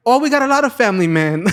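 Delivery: lightly mimicked recruiter, pitched high; persistent recruiter. Recruiter answering a reluctant family man, high-pitched persuasive imitation. Recruiter brushes off objection, retold.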